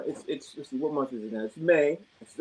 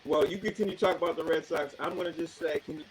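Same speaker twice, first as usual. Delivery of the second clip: over a landline phone; 3 semitones higher than usual. Real, not acted. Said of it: "the static in the background".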